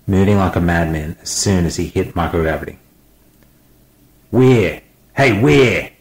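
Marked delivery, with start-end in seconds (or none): 4.3-5.9 high calls of a name across the ship; shouting. A narrator's reading. Smith shouting after the fleeing scientist. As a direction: call after him, loud and high. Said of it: "Smith shouted".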